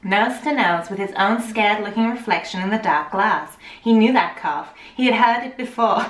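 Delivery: lightly put-on posh accent; posh English reading, a bit off. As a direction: try a slightly odd posh accent. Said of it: "bit posh".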